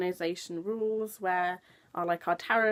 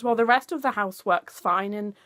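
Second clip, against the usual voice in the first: mock exasperated builder; 4 semitones higher, 6 dB louder than usual. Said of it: "your response is".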